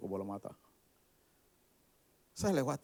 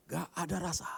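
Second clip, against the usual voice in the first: lamenting; 6 semitones higher than usual. Acted. Speaker complaining to the audience about bland food, lamenting. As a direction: stretch "Nggak" in a high lament.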